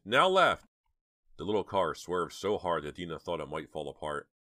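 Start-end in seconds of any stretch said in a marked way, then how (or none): 0.0-0.7 high, loud yell; frantic high-pitched order; screamed direction. A narrator's reading. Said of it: "Dina screamed".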